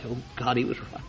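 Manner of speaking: a damned soul realising too late; terrified moan growing into a wailing shout; anguished soul in hell. Acted. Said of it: "You'll say".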